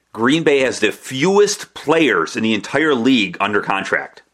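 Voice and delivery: slow build, then a long dramatic pause after contract; slowed, weighty delivery before a deliberate pause. Shown as a demonstration. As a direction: let the fact land and hang in silence. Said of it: "I'm all about the dramatic pause here".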